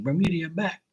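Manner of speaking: high mock Boston greeting; Boston accent. Bostonians hailing the visitor by nickname, Boston accent. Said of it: "They call me Bermuda".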